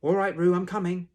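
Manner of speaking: high, very loud rescuer's call; Christopher Robin calling out. A narrator's reading. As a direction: call out urgently across the water. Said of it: "called Christopher Robin".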